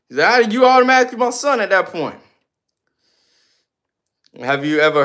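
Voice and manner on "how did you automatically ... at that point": high mock voice, fast; high mocking imitation; mocking viewer. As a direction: squeak out the viewer's question fast.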